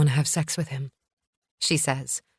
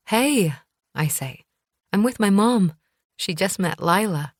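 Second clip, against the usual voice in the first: bright, lifted, smiling words; 3 semitones higher than usual. Acted. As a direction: let a smile curl the words up. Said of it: "There's a smile in my voice".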